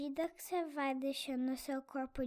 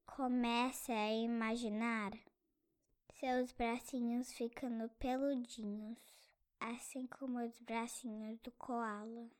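whispering; 4 semitones higher, 4 dB quieter than usual. Acted. Meditation imagery.

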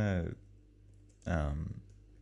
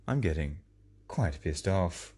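a light imitation of a slow, measured radio presenter, drawing the words out; slow, deliberate broadcaster read, only lightly put on; ABC podcast impression; slower than usual. Podcaster mocking his cohost's line in a slow presenter voice. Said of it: "That's my A B C podcast sort of impression".

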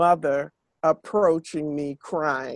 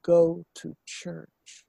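soft sweet voice; slower than usual. A narrator's reading. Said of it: "a soft, sweet voice say".

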